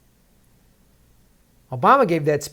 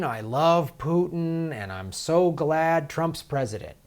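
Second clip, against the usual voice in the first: drawn-out, mock adoration of a leader; exaggerated slow fan gush; 3 semitones higher, slower than usual. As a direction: gush slowly, as a view you disown. Mimics a view he disowns.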